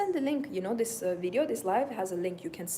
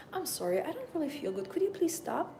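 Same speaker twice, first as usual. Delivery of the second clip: higher, polite pretend-sick appeal; apologetic plea to pull over, higher than usual; feigned unwell plea; 7 semitones higher than usual. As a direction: plead politely, as if feeling queasy. Acting out feigned sickness to driver.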